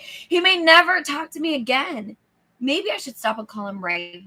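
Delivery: in-character inner worry. Acted. Driver worrying about forgetting to call Fred, mildly overwrought. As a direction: fret aloud as the worried inner voice. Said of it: "Get into character".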